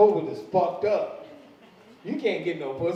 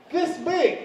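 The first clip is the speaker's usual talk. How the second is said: amazed emphasis; 10 semitones higher than usual. Real, not acted. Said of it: "showing bead size".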